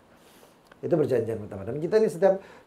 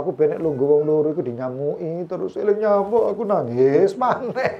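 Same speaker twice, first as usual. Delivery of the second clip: mock tearful retelling; 4 semitones higher, 3 dB louder than usual. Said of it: "delok nyamuk iku nangis".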